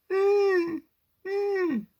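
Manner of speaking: high whimpering hum; injured dog whimper. Shown as a demonstration. Storyteller imitates the injured wolf's high whimper. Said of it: "make a noise like that".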